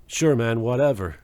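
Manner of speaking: half-hearted, low delivery of an actor; unenthusiastic imitation. Reviewer mocking Jason's line deliveries, unenthusiastic. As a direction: imitate someone whose heart isn't in it. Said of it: "All his line deliveries are kinda like".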